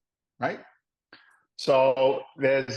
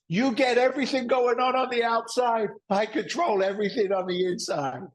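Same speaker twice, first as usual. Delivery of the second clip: high-pitched mock scolding; mimicked indignant wife; 11 semitones higher than usual. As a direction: lay down the law, hammed up. Acted wife laying down law.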